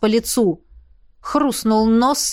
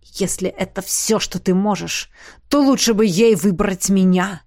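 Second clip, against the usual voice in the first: дерзко; 3 semitones lower than usual. Acted. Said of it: "заявил он".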